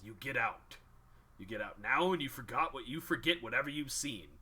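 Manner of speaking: half-orc snarl, ending in a loud demand; a growing threat that bursts on the last question; half-orc throws out the intruder, snarling, then loud. Acted. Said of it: "he snarls with his teeth".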